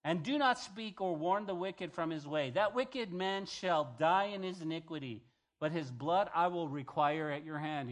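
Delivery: preacher's scripture read. Acted. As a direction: read the verse out to the congregation with weight. Reads scripture aloud.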